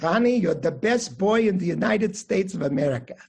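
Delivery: put-on grandfather's affectionate declaration in a Russian accent; lightly imitated Russian-accented grandfather. Grandfather to his grandson in a leg lock, imitated Russian accent. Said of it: "say in his Russian accent".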